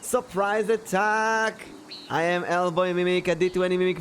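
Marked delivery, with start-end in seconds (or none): 0.0-1.6 high, bright raid welcome; excited greeting. Real, not acted. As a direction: cheer the raiders in. Streamer greets raid loudly.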